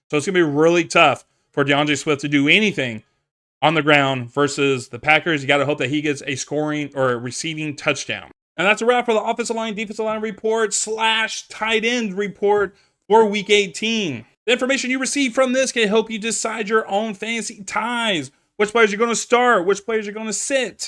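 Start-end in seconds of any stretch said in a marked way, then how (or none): 8.5-20.8 high-pitched yelling. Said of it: "I don't know why I'm yelling".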